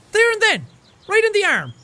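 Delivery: high, indignant cry of pain; outraged yelp. Acted. Game hero telling friends about a turtle bite, high outraged cry.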